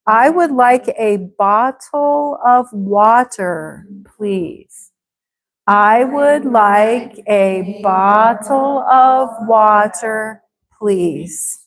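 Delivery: slow, careful take. Shown as a demonstration. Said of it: "when I say it faster".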